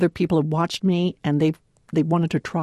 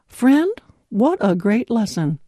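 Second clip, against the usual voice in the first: excited; slower than usual. Real, not acted. Gasped exclamation to listener.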